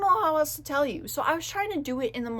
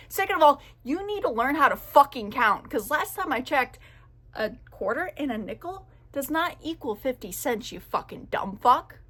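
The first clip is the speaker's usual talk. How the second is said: aggressive rant; 2 semitones higher than usual. Real, not acted. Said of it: "Sorry, I'm getting really fucking aggressive".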